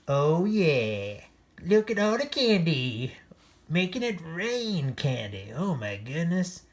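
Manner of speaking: high, loud gleeful cheer; excited cheer. A narrator's reading. Dogs sharing candy with Oscar, gleeful. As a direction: celebrate the candy.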